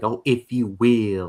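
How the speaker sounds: slow, put-on Southern delivery; mock Southern accent. Teasing Pig for suddenly turning Southern, mock Southern accent. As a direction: try out a fake Southern accent. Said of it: "you were never Southern up to this point".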